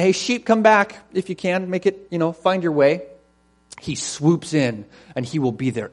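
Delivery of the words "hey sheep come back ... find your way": higher, offhand call to stray sheep; mock casual shepherd's call. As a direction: toss it out as a half-hearted summons.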